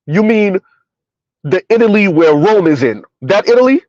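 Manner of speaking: mock disbelief. Real, not acted. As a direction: act stunned that anyone would believe it.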